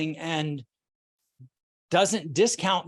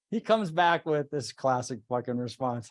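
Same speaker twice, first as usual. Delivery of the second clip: usual speaking voice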